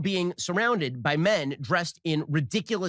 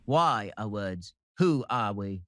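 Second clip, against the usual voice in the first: put-on slow, lower, drawn-out Aussie accent; 5 semitones lower, slower than usual. Pundit pondering words in a slow Aussie accent. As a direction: lay on a lazy Australian accent, slowly. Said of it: "now we're Aussie".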